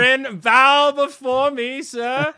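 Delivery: high, loud pompous overlord voice; dark lord. Retold or imitated. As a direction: proclaim it like a smug tyrant. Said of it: "if that's the hill that you were gonna die on".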